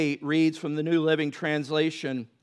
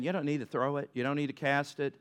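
gentle reassurance. Retold or imitated. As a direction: soothe a burdened child. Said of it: "And God is saying".

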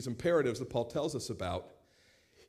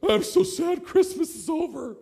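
mopey relative; 14 semitones higher, 8 dB louder than usual. Retold or imitated. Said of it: "somebody goes".

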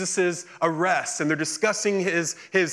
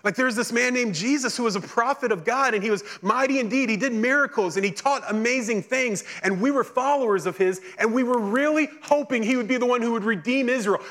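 higher, fast, urgent pleading; distressed disciples; 5 semitones higher than usual. Retold or imitated. Disciples telling the stranger their dashed hopes, higher and urgent. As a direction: pour out the whole disappointment in a rush. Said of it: "And they go".

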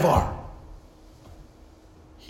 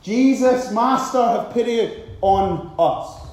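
raised voice, slowing on the plea; loud acted plea to the Master; crying out loudly; 2 semitones higher, 4 dB louder, slower than usual. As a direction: call out for pity, drawn out at the end. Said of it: "cried out in a loud voice".

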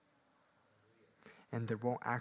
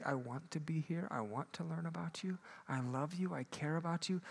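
eager and sincere; 4 semitones higher than usual. Retold or imitated. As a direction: say it like you truly mean it. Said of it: "But when we say".

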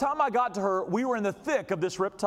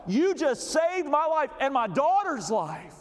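heartfelt thanks; 5 semitones higher, slower than usual. Retold or imitated. Thanking the rescuer.

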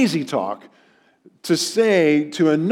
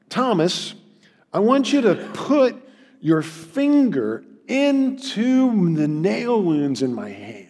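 tender. Retold or imitated. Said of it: "He's really very tender with Thomas".

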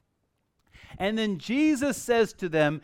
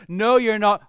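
louder retort; 3 semitones higher, 6 dB louder than usual. Shown as a demonstration. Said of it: "the first thought we have is".

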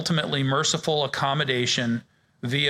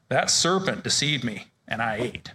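emphasized blaming woman; 4 semitones lower than usual. Acted. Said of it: "Emphasis on my voice there".

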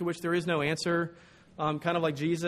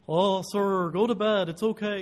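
louder, higher imitation of an old Dutchman; elderly Dutch professor; 4 semitones higher, 5 dB louder, slower than usual. Professor sending his student to bed, elderly Dutch voice. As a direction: play the old teacher brushing someone off. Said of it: "elderly Dutch man with a voice box problem".

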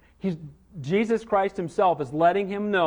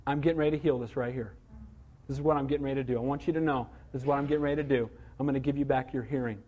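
softer, lower, gently confiding; quiet reassurance; 5 semitones lower, 7 dB quieter, faster than usual. Acted. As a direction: reassure him privately, keeping it low and soft. Voicing Jesus privately reassuring deaf man.

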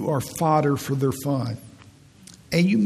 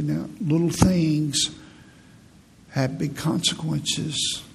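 slow matter-of-fact; slower than usual. Shown as a demonstration. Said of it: "I just said it matter-of-factly".

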